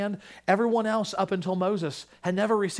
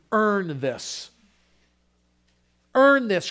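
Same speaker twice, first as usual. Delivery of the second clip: second Earn this louder and higher; insist, pressing the demand; demanding Christ; 4 semitones higher, 5 dB louder, much slower than usual. Pretend. Imagined Christ on the cross to us, mild demand.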